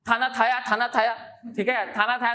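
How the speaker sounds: put-on childish lisping of खाना खाया as थाना थाया; mock toddler lisp; baby talk lisp. Shown as a demonstration. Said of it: "थाना थाया निकलता रहता है".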